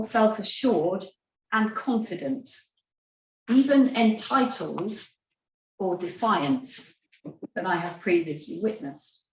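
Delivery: measured reading with long pauses between phrases; slow reading. Real, not acted. Speaker reads a therapist's observation to her audience, slowly and deliberately. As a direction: read the quote out slowly, phrase by phrase. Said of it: "I'll try and read quite slowly".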